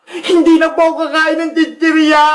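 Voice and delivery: hammed-up child wail; plead, then break into mock crying; tearful begging. Captive child begs and wails. (kunwaring humahagulgol na nagmamakaawa)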